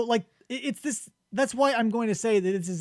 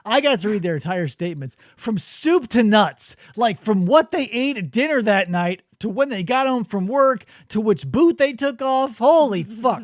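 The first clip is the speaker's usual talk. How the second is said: worked-up rant, building louder; exasperated rant; 3 semitones higher, 5 dB louder than usual. Real, not acted. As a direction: rattle off the list in mounting comic exasperation, ending loud. Exasperated rant over witness statements.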